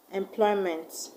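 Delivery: "employment" with the stress on PLOY; slow "employment", light first syllable, stressed PLOY; stress on second syllable. Shown as a demonstration. Teacher showing unstressed affixes, "employment" slowly stressed on PLOY. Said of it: "we've stressed them as though they were two syllable words".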